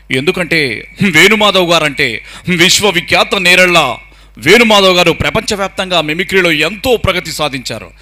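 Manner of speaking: lightly imitated actor giving an emphatic speech; Sai Kumar on stage. Mimic as the actor addressing the birthday gathering, lightly mimicked stage oratory. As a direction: stretch key words like a film star thanking guests. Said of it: "వేదికల మీద మాట్లాడితే సాయి కుమార్ గారు మాట్లాడే version".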